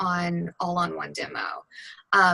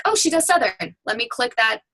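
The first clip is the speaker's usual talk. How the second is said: higher-pitched mock client reaction; imagined client; 4 semitones higher than usual. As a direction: play a client spotting what they want, pitched up. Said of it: "they wanna be like".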